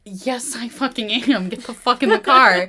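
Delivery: loud, swearing snap building to the last line; hammed-up angry command; mock furious Isabel. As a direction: order him into the car, fed up. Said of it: "And she's like".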